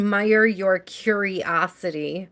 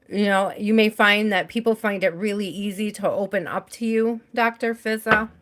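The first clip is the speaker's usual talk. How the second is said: crunching candy. Real, not acted. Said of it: "Sorry, I'm crunching on my candy".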